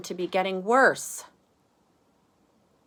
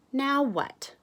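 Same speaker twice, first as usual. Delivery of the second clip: Arthur asking; 8 semitones higher, 4 dB louder than usual. Acted. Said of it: "says Arthur".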